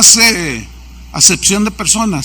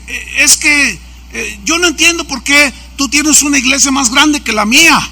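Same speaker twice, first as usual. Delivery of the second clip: higher-pitched, mildly indignant grumble; brusque complaint; 5 semitones higher than usual. Retold or imitated. Envious pastor asks why the other church is bigger, retold brusquely. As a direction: imitate an aggrieved rival demanding a reason. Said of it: "me empieza a hablar golpeado".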